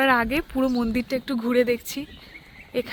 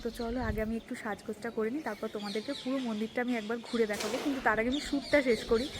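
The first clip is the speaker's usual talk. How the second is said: hushed temple voice; soft, subdued vlog narration; speaking softly; 7 dB quieter than usual. Real, not acted. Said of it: "আমি খুব আস্তে আস্তে কথা বলছি".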